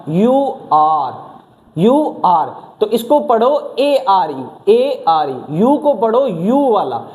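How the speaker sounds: slow, letter-by-letter spelling. Shown as a demonstration. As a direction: spell it out slowly for students. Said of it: "spelling out slowly".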